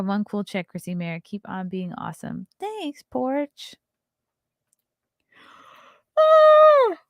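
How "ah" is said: loud high yawning sound; big yawn. Real, not acted. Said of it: "Sorry, sorry to yawn".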